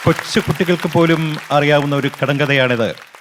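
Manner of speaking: hint of a tough hero answering; Jayan impression. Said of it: "Naseer സാറും ജയനും". (ജയന്റെ ശബ്ദത്തിന്റെ നേരിയ അനുകരണം)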